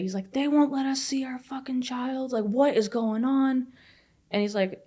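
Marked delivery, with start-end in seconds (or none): 0.3-3.7 mock outburst, high and slowing at the end; retold losing it. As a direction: imitate a husband losing it, voice raised in pitch. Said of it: "like, loses it".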